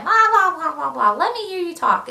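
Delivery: high, gushing mock swoon; swooning women. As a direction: gush like a starstruck fan. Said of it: "all of these women are like".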